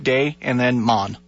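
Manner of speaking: "day and then Mon" slowly, in two parts; slow syllable-by-syllable "day" and "Mon"; pronunciation broken down. Shown as a demonstration. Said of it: "what's the proper pronunciation".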